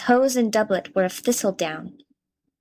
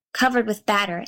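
plain reading voice

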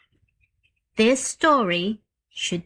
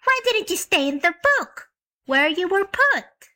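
put-on high, firm girl claiming ownership; a child laying down the law; little girl voice; 10 semitones higher than usual. A narrator's reading. Jane Gladys telling the bear he is hers, high and firm.

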